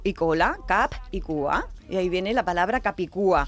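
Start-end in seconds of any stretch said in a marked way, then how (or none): 0.7-1.7 "cap y cua" slowly, in Catalan, each word set apart. Shown as a demonstration. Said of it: "significa en catalán cabeza y".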